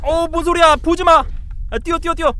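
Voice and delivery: high-pitched real alarm; high, urgent panic at a noise. Real, not acted. Player hears something and wants to run, alarmed.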